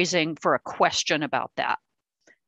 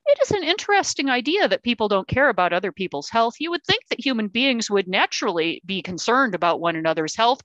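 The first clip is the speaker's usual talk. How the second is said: impersonal, lecturing commentary; detached computer mode; 3 semitones higher than usual. Shown as a demonstration. Answering a mother's jab with a lofty impersonal ramble. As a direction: drift off into dry commentary. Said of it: "or you can go computer mode and go".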